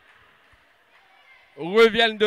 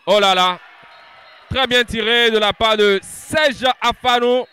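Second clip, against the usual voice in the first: louder, higher burst of praise; excited sports commentary; 3 semitones higher, 5 dB louder than usual. Real, not acted. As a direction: cheer the shot loudly. Commentator reacts to a shot.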